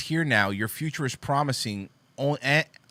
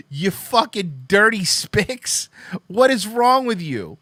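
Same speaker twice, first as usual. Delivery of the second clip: higher, louder, slower caricature of a raging bigot; louder mock bigot; 6 semitones higher, 6 dB louder, slower than usual. Mocking the tweeter, a louder hammed-up bigot yell. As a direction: push the sneer into a yell.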